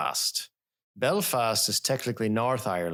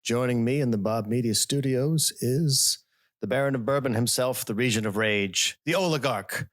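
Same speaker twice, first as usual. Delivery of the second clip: announcer intro. Acted. Grand host introduction.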